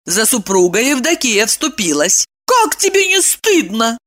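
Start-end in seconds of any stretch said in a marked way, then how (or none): 2.4-4.0 indignant. A narrator's reading. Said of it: "возмутилась она".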